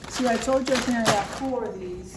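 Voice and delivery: talking while chewing; words around a mouthful; mouth full. Real, not acted. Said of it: "I'm talking with my mouth full".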